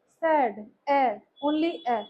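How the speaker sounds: "सैड", then a slow, separate "ए"; vowel sound picked out. Shown as a demonstration. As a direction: isolate the lone "ए" heard in "सैड". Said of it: "सिर्फ ए सुनाई दे रहा है".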